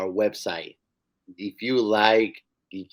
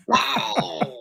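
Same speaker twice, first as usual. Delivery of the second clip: mock surprise; 11 semitones higher, 3 dB louder than usual. Pretend punch exclamation.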